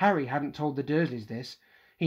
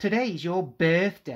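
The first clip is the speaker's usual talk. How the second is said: taunting, jeering, mocking sneer; 3 semitones higher than usual. Narrator reads Dudley speaking to Harry, sneering. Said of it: "sneered Dudley".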